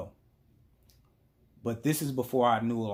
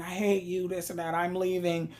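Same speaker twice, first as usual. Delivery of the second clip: high imitation of an upset girlfriend, lightly tearful; mock crying; 7 semitones higher than usual. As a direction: retell her tearful outburst in a raised voice. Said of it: "Then she started crying".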